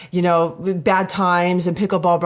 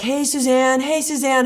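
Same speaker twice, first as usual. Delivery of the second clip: higher-pitched, sing-out hello; imitated friendly greeting; 5 semitones higher than usual. Woman retelling friends greeting her at pickleball, imitated cheery welcome. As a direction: mimic friends calling out a welcome. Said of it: "everybody's like".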